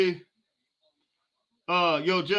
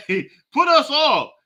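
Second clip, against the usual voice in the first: said through a laugh, slow and louder; 5 semitones higher, 6 dB louder, slower than usual. Real, not acted. Streamer joking that the fans should play, laughing. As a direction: laugh as you pitch the joke.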